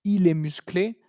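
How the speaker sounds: "musclé" ending on é with a rise; first half of a comparison, lift "musclé"; same sound. Shown as a demonstration. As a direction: masculine "musclé", clear final é. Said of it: "es lo mismo".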